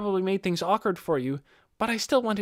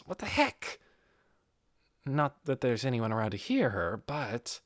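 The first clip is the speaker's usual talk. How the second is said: inner thought; 7 semitones lower than usual. Acted. Ainz's inner thoughts, lower voice.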